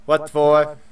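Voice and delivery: level monotone robot. Acted. Robot asking to be shown the forecast, monotone robot voice. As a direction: read it like a robot, pitch held even. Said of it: "try and do that robot voice".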